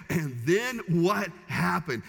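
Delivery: slow, drawn-out and eager; eager husband. Shown as a demonstration. Husband asking his wife, slow and eagerly interested. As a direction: hang on every word, slowly. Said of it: "after you pick her up off the ground".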